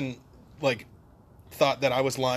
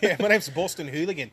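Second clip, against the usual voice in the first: put-on Boston accent; 3 semitones higher than usual. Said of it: "introduce yourself as Boston Hooligan".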